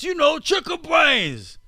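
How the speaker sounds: high, slow, drawn-out hammed-up Australian accent; mock Australian accent. Host quotes a centenarian Australian rancher, in mock Australian accent. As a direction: put on a silly high-pitched Aussie voice. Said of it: "that's how a guy from Australia sounds to me".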